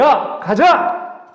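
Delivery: loud, very slow military order; commanding shout. Acted. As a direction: bark it like an army command. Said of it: "군대에서 명령하는 것처럼". (군대 명령처럼 크고 느리게 외치는)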